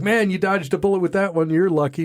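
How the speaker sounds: mock congratulations, a touch hammed; impressed neighbor.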